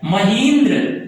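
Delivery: महेंद्र said slowly, stretching each syllable; slow demo word. Shown as a demonstration. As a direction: draw out महेंद्र to show the long ई. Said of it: "यहां देखेंगे बड़ी ई का उच्चारण". (महेंद्र धीरे-धीरे खींचकर)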